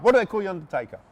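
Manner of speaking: retold burst of curiosity; blurted question. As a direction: blurt it out as if you can't hold back. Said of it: "Just blurt it out".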